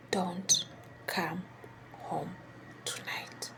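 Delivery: put-on fading, trembling old man's whisper; shaky weak whisper. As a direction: let the warning die away to nothing. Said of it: "he whispered to me".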